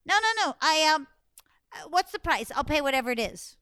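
high, hurried insistence; eager pleading. Acted. Anansi eagerly bargains with Sky God.

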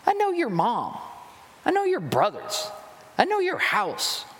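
mocking high-pitched disbelief, pushing back; scoffing townsfolk who know his family; incredulous skeptics. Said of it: "And they go".

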